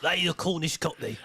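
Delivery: Cornish-Cockney character voice; Ray. Shown as a demonstration. Co-host showing the host how to do the voice, mock Cornish Cockney. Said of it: "You gotta do Ray's voice".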